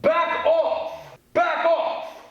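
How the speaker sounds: loud, high commanding shout; strong voice. Shown as a demonstration. Teacher models warning Doc Ock, loud commanding shout. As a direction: stop a villain cold with your voice. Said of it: "in a strong voice, a mom and dad voice".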